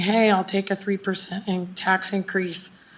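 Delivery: normal talking voice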